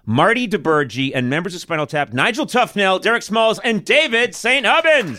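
building, rising guest introduction; announcer introduction. Real, not acted. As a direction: show host bringing on the band. Host brings the guests on stage.

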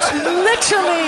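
shouted high and drawn out at half pace; hammed-up outrage on one word; mock outraged shout. Friends riffing, he bellows the word back in mock outrage.

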